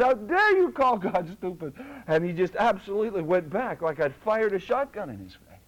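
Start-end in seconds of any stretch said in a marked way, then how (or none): 0.0-1.7 a touch of indignation, near normal pace; quick retelling of How dare you, mildly raised; retold rebuke. Preacher retelling the rebuke to one man, lightly indignant. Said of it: "I said".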